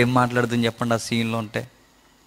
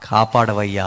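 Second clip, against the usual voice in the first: broken prayer; 5 semitones lower, 3 dB louder, slower than usual. Acted. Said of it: "ఒక స్వరం రావాలి".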